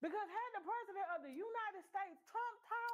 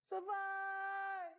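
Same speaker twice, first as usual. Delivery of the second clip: mock crying; much slower than usual. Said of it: "Listen at him cry, y'all".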